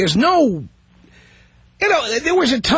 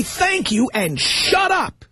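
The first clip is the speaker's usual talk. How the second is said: curt thanks, slow; 4 semitones higher, slower than usual. Shown as a demonstration. Host lecturing the caller on how to take a gift, slow and curt. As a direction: drag out shut up slowly.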